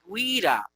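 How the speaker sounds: GUIRA as GWI-ra; sounded u. Shown as a demonstration. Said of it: "que queremos decir".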